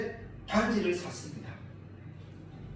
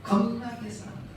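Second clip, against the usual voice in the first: Jeolla dialect; 5 semitones higher than usual. Shown as a demonstration. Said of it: "전라도는".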